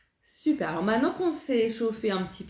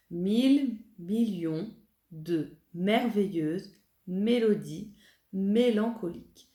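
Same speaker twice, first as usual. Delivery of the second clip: slow diction; 3 semitones lower, slower than usual. Shown as a demonstration. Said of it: "la première qu'on va apprendre".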